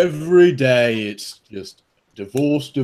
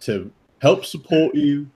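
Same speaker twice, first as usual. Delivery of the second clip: lightly put-on British accent as the uncle. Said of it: "if you guys do the accent".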